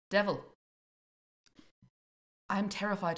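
put-on storyteller's folktale accent; not-quite-Scottish folktale accent. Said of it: "my folktale accent".

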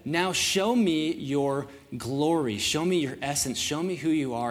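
slow, weighty Bible reading; scripture reading. Acted. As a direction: let each phrase of scripture land, slowly. Reads scripture slowly.

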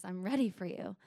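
a hint of a seductive man; lion man's line. Lion man greeting her at the door, lightly seductive. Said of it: "He says".

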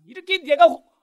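high, loud mock scolding; imitated angry mother. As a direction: play a mother telling off her child. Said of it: "엄마가 꼭 화를 내시면서".

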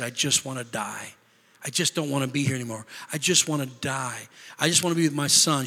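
mildly grieved, softened retelling; grieving. Retold or imitated. Elder quoting his wife after their son's death, quietly grieving. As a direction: quote her grief quietly, held back. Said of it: "She was so grieved and so hurt".

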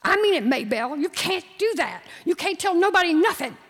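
desperate. Acted. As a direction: plead hard, voice rising. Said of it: "He was desperate".

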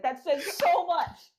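high, slow, laughing words. Real, not acted. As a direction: crack up while getting it out. Cracking up at the bad accent.

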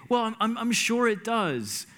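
high-pitched, well-meant reassurance; eager camaraderie. Retold or imitated. Retold urge to comfort the interpreter, high-pitched reassurance. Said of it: "in that camaraderie type of moment".

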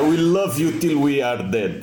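put-on slow, menacing Russian accent English; tender words in a threatening Russian accent. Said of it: "inglês com sotaque russo".

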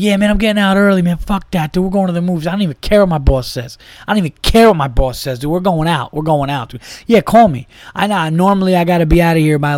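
high, loud bro hype; pumped about leaving work early; loud excited friend. Retold or imitated. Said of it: "You gotta feel like".

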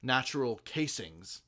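natural casings with weight on natural; wrong stress. Shown as a demonstration. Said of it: "putting the emphasis on".

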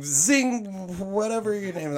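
high-pitched, hammed-up American accent; super American accent. Police guy addressing the man with wine, super American accent. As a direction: overdo the American cop accent. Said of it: "he says it like a super American accent".

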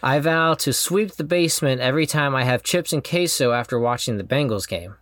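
sincere, measured vow reading; heartfelt vow reading. Real, not acted. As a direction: read the vows with tender sincerity. Reads his wedding vows aloud.

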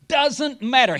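emphatic rebuttal. Real, not acted. Preacher rebutting, loud.

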